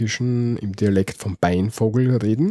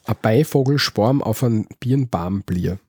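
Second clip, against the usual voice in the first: Austrian dialect. Shown as a demonstration. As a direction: read out in broad Austrian dialect.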